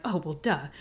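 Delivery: rolling eyes at her own question; self-mocking duh. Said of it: "I'm like".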